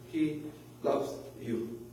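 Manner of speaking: soft, low, word by word; tender reassurance. Retold or imitated. Pastor retelling how he comforted a crying woman, tender reassurance. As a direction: pause gently inside the phrase.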